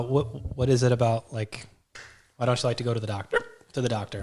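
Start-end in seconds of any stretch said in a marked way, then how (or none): 2.4-4.2 talking through the hiccups; words broken by hiccups. Real, not acted. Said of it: "The hiccups are back".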